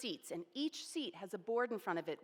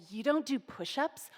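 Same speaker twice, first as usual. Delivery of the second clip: scornful question rising at the end; mocking challenge; 5 semitones higher than usual. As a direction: call her out in front of everyone. Scary senior mocks the narrator.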